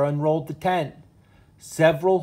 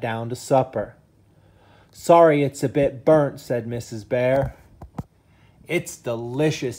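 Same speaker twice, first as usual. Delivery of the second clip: lively bedtime-story reading voice; reading to children. Acted. Dad reading a bedtime story to his sons, animated. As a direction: read it like a storybook for the boys.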